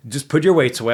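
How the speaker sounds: mildly acted angry telling-off; retold anger. Gym worker telling a kid to clear weights, retold anger. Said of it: "then I got fucking really mad".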